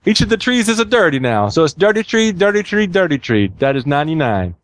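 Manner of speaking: high, singsong mock-Italian voice; joke Italian accent. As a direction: explain it proudly in a hammy Italian accent. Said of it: "The Italian stares into space".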